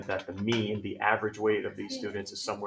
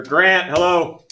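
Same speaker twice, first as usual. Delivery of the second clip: sarcastic hello; 6 semitones higher, 10 dB louder, much slower than usual. Real, not acted. Teacher calls on a distracted student.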